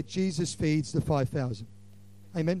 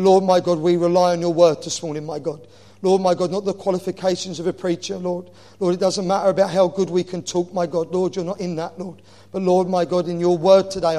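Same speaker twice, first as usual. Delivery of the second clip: louder, rising and falling pleading prayer; fervent prayer; 3 dB louder than usual. Acted. Preacher praying over the church, fervent and loud. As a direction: pour it out to God like a revival preacher.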